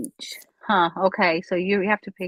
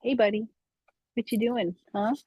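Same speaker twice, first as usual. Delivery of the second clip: talking to a dog; 4 semitones higher than usual. Real, not acted. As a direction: coo at your dog. Cooing at dog Apollo.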